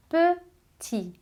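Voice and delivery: "Petit" with no t, just pti; French pronunciation. Shown as a demonstration. Teacher showing students the silent final T. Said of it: "Você não pronuncia o T final".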